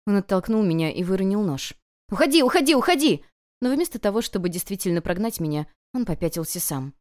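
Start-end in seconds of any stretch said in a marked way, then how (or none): 2.1-3.2 higher, loud repeated shout; panicked child yelling go away; boy shouting. Acted. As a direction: drive her away, yelling. Frightened boy pushes her away.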